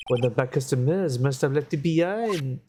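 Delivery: lightly put-on French accent, café owner voice. Café owner telling the lawyer what happened, light French accent. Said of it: "I hate doing the accent".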